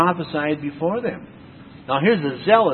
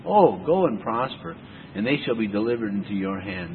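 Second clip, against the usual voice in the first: sarcastic; 3 semitones lower than usual. Acted. Prophet humours the king who asked about war, sarcastic. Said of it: "it must have been sarcastically, said to him".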